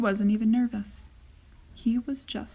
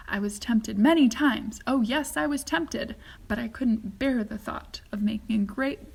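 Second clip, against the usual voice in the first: lightly voiced, teasing showman; a secret he can't wait to reveal; gleeful Wonka; 5 dB louder than usual. Wonka teases and launches.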